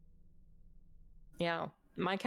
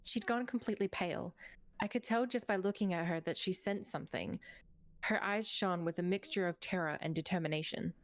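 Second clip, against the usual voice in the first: measured storyteller read; story narration. Acted. Reads game story narration.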